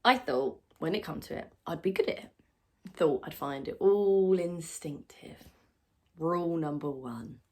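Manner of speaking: loud, pressured confession of failure; strained self-reproach. Acted. Struggling mother recalls the rules of motherhood, loud and strained.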